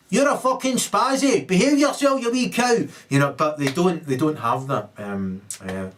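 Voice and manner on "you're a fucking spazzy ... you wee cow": high, loud mock scolding machine; scolding laptop voice. Laptop scolding the sinner at wake-up, high and loud. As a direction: bark insults like a nagging laptop alarm. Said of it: "the laptop wakes you up and says".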